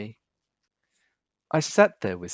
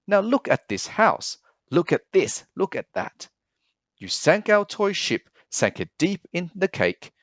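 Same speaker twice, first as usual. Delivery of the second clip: a furious pet pointing out the mess; scolding fish; 5 semitones higher than usual. Acted.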